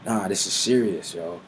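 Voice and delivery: startled whoa, then hushed; shocked by the vision; awed whoa. Retold or imitated. John seeing the vision, startled and awed. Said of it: "he's like".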